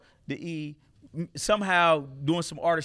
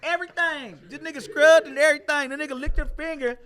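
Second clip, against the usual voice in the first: laughing; 12 semitones higher, 10 dB louder than usual. Real, not acted. Still cracking up telling the story.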